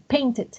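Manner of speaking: "painted" with the final -ed sounded as its own syllable; -ed pronounced. Shown as a demonstration. Teacher showing students which verbs voice the ending, -ed pronounced. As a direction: say "painted" in two syllables, pain-ted. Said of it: "que sí se pronuncian".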